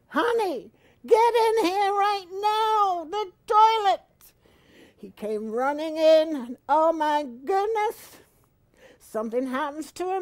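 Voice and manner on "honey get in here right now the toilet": high, loud screaming for her husband; screamed. Retold or imitated. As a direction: scream for him to get in here now. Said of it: "I screamed".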